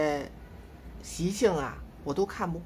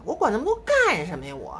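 rueful self-question. Real, not acted. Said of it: "真是的".

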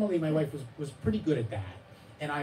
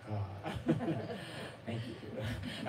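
laughing mock thanks; 5 dB quieter, much slower than usual. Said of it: "And then he'd be like".

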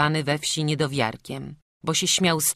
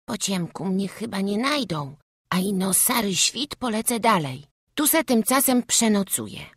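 put-on higher boy voice; little boy thinking aloud; 7 semitones higher than usual. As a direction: settle in to hide. Boy plans to hide.

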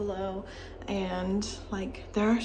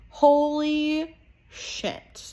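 surprised; 7 semitones higher, 6 dB louder, much slower than usual. Real, not acted. Stunned by drama news.

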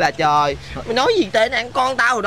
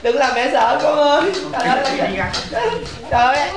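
a mother's lament, pleading with her son; wailing mother; 3 semitones higher than usual. Acted. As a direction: wail for the child up the tree.

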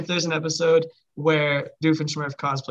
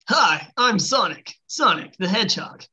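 Sonic impression. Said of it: "I've ever done his voice".

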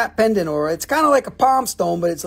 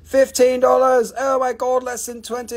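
excited announcement; 5 semitones higher than usual. Real, not acted. Price drop announced.

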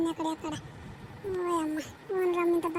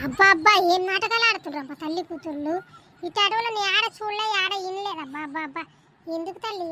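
grumbling landlady; 2 semitones higher than usual. Acted. Landlady complaining about the new tenant's child, weary grumble. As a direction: sigh out each abba like a fed-up old owner.

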